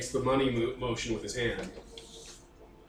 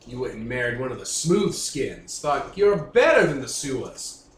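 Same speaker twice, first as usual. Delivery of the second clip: lightly put-on Louisiana hillbilly drawl, menacing; a hint of a Louisiana swamp thug; slower than usual. Gang boss grilling a cop, light Louisiana hillbilly accent. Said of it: "I'm trying to do Louisiana hillbilly".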